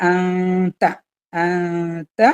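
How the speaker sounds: hide the n of അന്ത in a held hum; അന്ത with a long concealed n; ikhfa nasal hold. Shown as a demonstration. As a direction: draw out the nasal in അന്ത before the t. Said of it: "ഇർഫാണ്".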